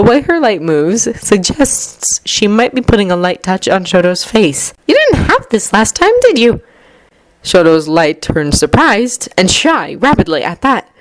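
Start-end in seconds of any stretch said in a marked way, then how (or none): 4.9-6.6 concerned mother. A narrator's reading. Mom voiced by narrator.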